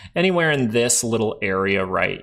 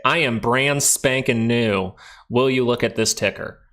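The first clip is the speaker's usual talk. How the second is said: slow, deliberate, word by word; exact phrase demo; slower than usual. Shown as a demonstration. Host showing new viewers the exact phrase, slow and deliberate. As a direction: spell out the phrase carefully. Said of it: "You have to say it exactly like this".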